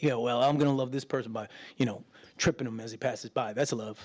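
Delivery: mock someone twisting the Word; sarcastic mock. Pastor mocking a self-justifying believer, low and fast.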